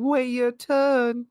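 slow, high, loud demonic screech. A narrator's reading. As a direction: shriek it like a possessed toy. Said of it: "in a demonic, low-pitched voice".

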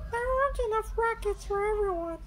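put-on high, quick girl voice; Susie Sheep. A narrator's reading. Susie tells the friends there are too few rackets, high voice. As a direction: point it out matter-of-factly. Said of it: "replies Susie Sheep".

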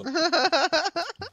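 high, loud burst of laughter. Real, not acted. Laughing at a friend's joke, loud burst. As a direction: crack up out loud.

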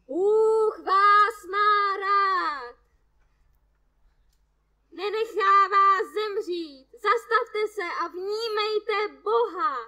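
slow, sung, high sermon call; preaching through megaphone. A narrator's reading. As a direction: chant God's word like a street preacher. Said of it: "hlasatel božího slova megafonem". (kazatel zpívavě hlásá do megafonu)

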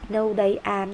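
No, they are, said slowly and evenly; slow model answer. Shown as a demonstration. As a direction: read the answer out slowly for the class. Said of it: "Đó là they".

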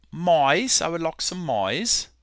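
amateur British accent; imitation British English. Shown as a demonstration. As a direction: put on a polite British voice. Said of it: "give you my British accent".

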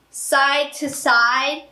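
slow, spaced-out words; slowly paced out. Shown as a demonstration. Singer showing her pacing habit, slow and spaced. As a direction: draw out each side. Demonstrates pacing while speaking.

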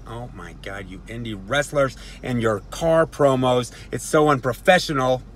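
lightly mocking imagined critics; mock disapproval. Wrestler mimicking viewers sneering at car promos, mock disapproval. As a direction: put on a scandalized complaint, building in volume. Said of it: "I know what you're all thinking".

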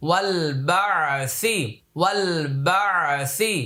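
ওয়াল বা'সি joined, the আলিফ silent, a bit slow; no alif in ওয়াল বা'সি. Shown as a demonstration. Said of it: "এই আলিফটা উচ্চারণে আসবে না". (আলিফ ছাড়া ওয়াল বা'সি)

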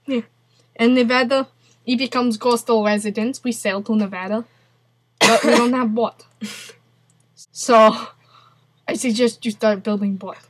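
mock Russian accent, halting. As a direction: tell a woeful tale in put-on Russian accent. Keeps up Russian character.

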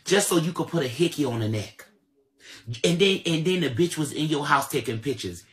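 loud, heated accusation. Real, not acted. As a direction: keep hammering him. Continuing heated rant.

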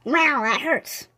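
slow, cat-voiced complaint. Cat complaining after she fell, slow. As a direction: say it like the hurt kitty. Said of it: "she's like".

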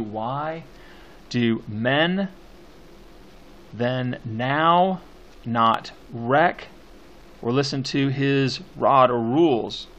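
measured verse, pausing between beats; poem scansion reading. Shown as a demonstration. Teacher marking stresses in the poem, deliberate emphatic recitation. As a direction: recite it beat by beat with firm stresses. Reads the poem while scanning.

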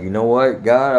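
mildly lifted voice addressing God; calling out to God. Retold or imitated. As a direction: recount a moment of calling on God. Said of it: "I called out to God".

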